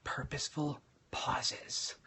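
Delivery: slow, hushed stage whisper. Shown as a demonstration. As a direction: whisper it with deliberate gaps between words. Demonstrates vocal variation and pauses.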